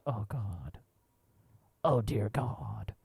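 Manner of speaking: whispered, slow "oh dear God"; a mortified whisper under the breath; hushed panic. Retold or imitated.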